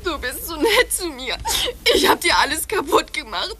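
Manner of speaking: sobbing, half laughing; teary self-blame; crying. Acted. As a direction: weep through gratitude and guilt. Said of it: "hör auf zu weinen".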